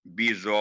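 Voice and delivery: बिजौरीन with जौ stretched long, then रा pressed; long jau, stressed ra. Shown as a demonstration. Teacher corrects students who split बिजौरीन, long जौ. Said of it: "आवाज जौ की लंबी करके रा तक".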